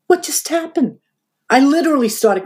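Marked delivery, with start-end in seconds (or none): 0.1-1.0 retold stunned disbelief. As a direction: ask it dazed, pitch lifted. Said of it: "we were both really in shock".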